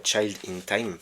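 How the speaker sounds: French speaker carefully redoing the English title; French-accented English, careful. Real, not acted. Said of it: "pardon pour mon accent".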